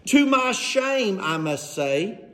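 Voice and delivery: slow mock confession; stretched, sarcastic admission. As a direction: confess it with drawn-out, fake shame. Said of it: "how you really know he's being sarcastic".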